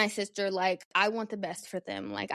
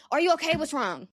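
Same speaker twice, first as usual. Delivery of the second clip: mock fake concern; 6 semitones higher than usual. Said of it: "and not be a".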